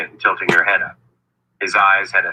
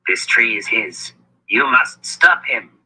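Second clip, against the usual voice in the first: urgent wizard voice; 4 semitones higher than usual. Acted. Wizard urges Kalen.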